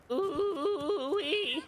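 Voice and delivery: high, loud delighted ooh-wee; excited whoop. Real, not acted. Gamer cheering his gun's hits, excited. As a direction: whoop at a great shot.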